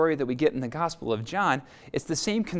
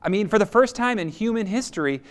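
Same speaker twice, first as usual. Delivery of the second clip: 1 triumphant climax; 7 semitones higher, 6 dB louder than usual. Real, not acted. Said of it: "preacher's climax".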